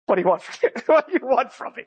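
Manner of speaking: chuckling through a retold protest; amused protest. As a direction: let laughter break into the imitated question. Retold rabbi, teller chuckling through it.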